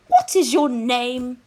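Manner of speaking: "what is your name" slow, high lilt; sing-song tone. A narrator's reading. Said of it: "in a sing-song tone".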